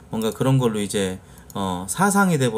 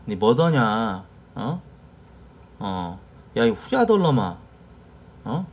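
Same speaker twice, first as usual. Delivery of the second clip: Jeonbuk dialect; 2 semitones lower, slower than usual. Shown as a demonstration. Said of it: "전라북도 가면 이제".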